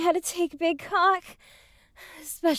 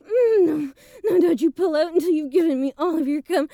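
very high, pleading, broken cries; second climax; 8 semitones higher than usual. Acted. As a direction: beg through the peak, voice cracking. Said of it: "Oh, I'm so close again".

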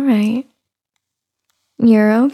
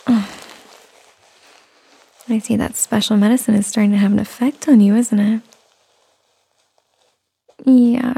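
tired new mother. Acted. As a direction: coo gently to a little one. Soft mommy roleplay throughout.

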